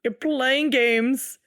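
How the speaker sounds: slow, drawn-out mock drama; slow mock-dramatic tease. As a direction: drag it out like a soap star.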